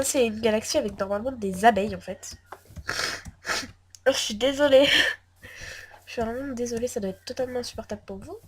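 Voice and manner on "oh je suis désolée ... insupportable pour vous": sniffly sick voice, sorry; sniffling, sick. Real, not acted. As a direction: apologize through a runny nose. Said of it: "je renifle, mais je suis malade".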